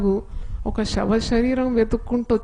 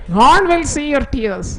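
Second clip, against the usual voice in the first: slow proclamation; 4 semitones higher, 5 dB louder, much slower than usual. Real, not acted. Proclaiming promise to congregation.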